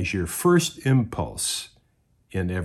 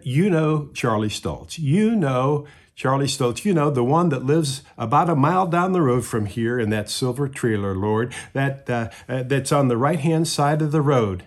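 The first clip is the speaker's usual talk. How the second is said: fervent praying man; 5 semitones higher, 4 dB louder than usual. Acted. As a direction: plead with the Lord like a small-town church elder. Man praying aloud in story.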